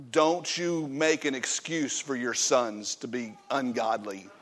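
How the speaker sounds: low, firm rebuke to the congregation; stern preacher scolding parents; stern warning. Real, not acted. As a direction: lay down the law, pointed and close. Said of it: "That's good preaching".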